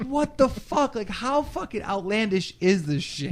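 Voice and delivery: high, incredulous what-the-fuck; incredulous outburst. Retold or imitated. Telling friends how absurd the hotel scene got, high incredulous voice. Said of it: "I'm just like".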